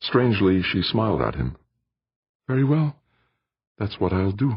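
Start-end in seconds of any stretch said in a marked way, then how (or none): 2.5-4.5 higher, lighter female voice for Aditi; Aditi's voice. A narrator's reading. Aditi answers Jordan in her higher voice.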